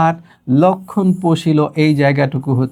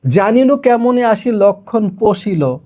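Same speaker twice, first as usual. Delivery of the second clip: verse recital; 4 semitones higher, slower than usual. Shown as a demonstration. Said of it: "শুরুটা একটু দেখাই".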